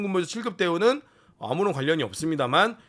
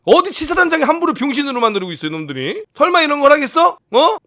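loud, high-pitched angry rant; indignant outburst at full voice; outraged shouting; 10 semitones higher, 10 dB louder than usual. Real, not acted. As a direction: shout it in disbelief.

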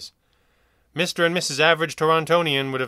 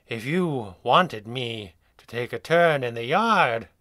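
slow, weary drugged drawl; slow, sighing inmate voice; slower than usual. Acted. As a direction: sigh it out, too doped to move. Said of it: "he sighed".

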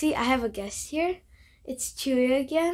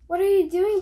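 higher, louder startled question; puzzled Gerald; 7 semitones higher, 8 dB louder, faster than usual. Acted. Gerald asking Piggy, startled and louder. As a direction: ask it in baffled alarm.

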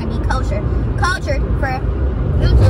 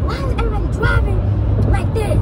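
exasperated; 9 semitones higher than usual. Real, not acted. Complaining about drivers.

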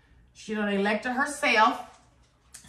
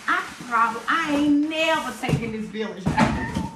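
excited; 4 semitones higher than usual. Real, not acted. Thrilled by the village.

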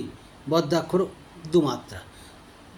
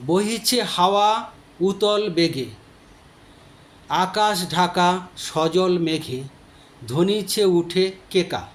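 poem recitation; slower than usual. Shown as a demonstration. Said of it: "আমি একটা উদাহরণ দিচ্ছি".

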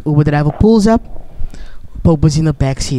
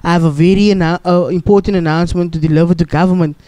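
agitated Pope. Retold or imitated. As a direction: hurry the driver, irritated. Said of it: "very agitated and is like".

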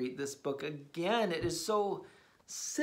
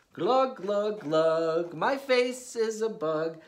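silly glugging voice; 2 semitones higher, 4 dB louder than usual. Acted. Silly reading of nonsense.

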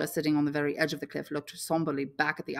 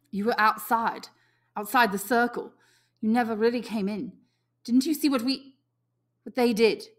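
louder, feverish and loathing; feverish excitement; 6 semitones higher, 5 dB louder than usual. A narrator's reading. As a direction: spit it out half-excited, half-disgusted. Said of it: "loathing ... feverish excitement in his voice".

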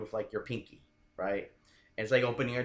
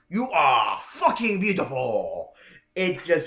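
slow, louder line in a put-on Fabi Asian accent; 5 semitones higher, 7 dB louder, slower than usual. Dating coach demos his pickup line in a Fabi Asian accent. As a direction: lean into a thick Fabi Asian accent, drawn out. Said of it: "if you can imagine a Fabi Asian accent".

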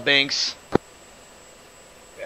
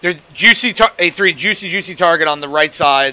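excited; 3 semitones higher, 3 dB louder than usual. Real, not acted. Spots a juicy target.

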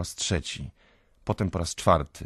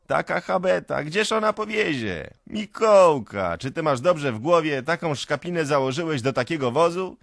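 high, loud heckling from a crowd; jeering shouts; 10 semitones higher, 7 dB louder than usual. A narrator's reading. Crowd mocking Mikołka's feeble nag, shouting. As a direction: shout mockingly over the din. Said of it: "Rozlega się śmiech i krzyki".

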